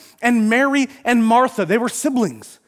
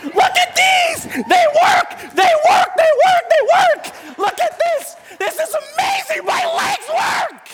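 high, shouted, overjoyed whooping; wildly hammed-up jubilation at full pitch; ecstatic healed man; slower than usual. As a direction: shout like your legs just started working. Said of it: "you can imagine he's".

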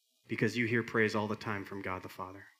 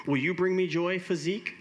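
high, loud questioning voice; pleading seeker; 6 semitones higher, 4 dB louder than usual. Acted. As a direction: ask it high, like the searching little bird. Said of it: "going around to every single thing and saying".

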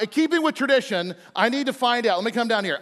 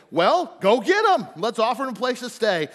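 lightly voiced eager father; 3 semitones higher than usual. Jethro voiced in Bible story.

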